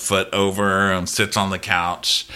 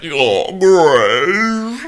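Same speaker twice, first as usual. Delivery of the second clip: higher, louder put-on creep voice; creepy Larys; 8 semitones higher, 6 dB louder than usual. Larys leering at Alicent in a put-on creepy voice. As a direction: leer it out like a creepy courtier.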